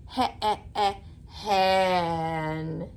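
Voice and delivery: hen broken into its sounds, the eh pulled out; sounding out a word. Shown as a demonstration. Teacher sounding out hen for a young child, slowly split. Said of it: "Do you hear eh when I say hen?".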